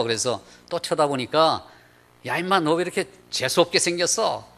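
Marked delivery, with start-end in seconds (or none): 2.3-4.5 higher-pitched mock insult; indignant, lightly acted outburst; retold scolding. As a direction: imitate a woman telling off the guide. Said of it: "야단을 치더라는 거예요".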